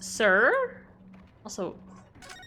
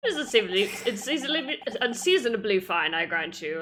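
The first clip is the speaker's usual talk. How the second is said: a hint of gruff English policeman; grudging English detective. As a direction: concede it in a put-on English accent.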